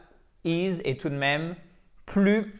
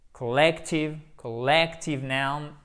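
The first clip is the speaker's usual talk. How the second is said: collective noun slow, middle syllable stressed; slower than usual. Shown as a demonstration. Teacher repeating collective noun slowly for the class. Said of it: "vous avez un accent tonique ici".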